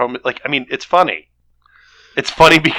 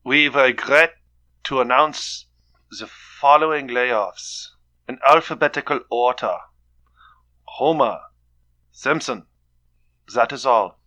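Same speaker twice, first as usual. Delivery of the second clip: German accent. Shown as a demonstration. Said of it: "Or if Carl wants to do it in a German accent".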